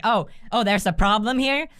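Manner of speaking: sugary mock-helpful voice; mock concern. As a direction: fake concern while scamming them. Mockingly offering help for money.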